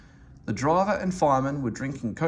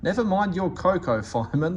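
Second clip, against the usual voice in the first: higher and louder, laughing through the words; 6 semitones higher, 3 dB louder than usual. A narrator's reading. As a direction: chuckle at the fireman's fuss. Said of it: "laughed his driver".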